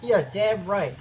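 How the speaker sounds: deep, quiet self-assurance; low resolve. Real, not acted. Gamer protecting the node, low quiet resolve. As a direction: say it low and soft, standing your ground. Mock-tough defence of the node.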